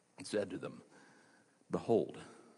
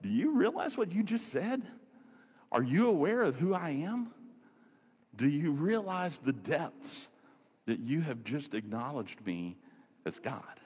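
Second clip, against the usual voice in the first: pitched higher, pressing each question; urgent amazement; 5 semitones higher than usual. Retold or imitated. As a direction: press him to grasp who he's speaking to. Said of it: "No, he's like".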